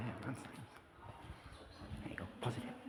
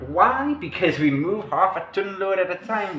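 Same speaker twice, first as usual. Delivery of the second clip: attempted Asian accent; 6 semitones higher than usual. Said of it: "I'm trying to do a, an Asian accent".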